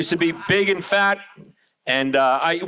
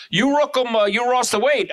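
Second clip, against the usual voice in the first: higher voice, mock Asian accent; 4 semitones higher than usual. Neighbor noticing the weight loss, mock Asian accent. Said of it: "my next door neighbor the other day goes".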